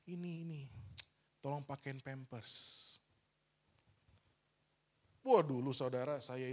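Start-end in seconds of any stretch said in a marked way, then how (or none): 0.1-3.0 put-on weak old father. His ailing father asking help.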